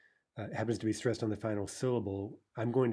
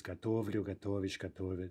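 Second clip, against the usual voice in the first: готовлю, готовишь, готовит all stressed on "то"; stem stress. Shown as a demonstration. Teacher showing stress stays put, готовлю, готовишь, готовит stressed on ТО. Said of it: "stress pattern will be stem".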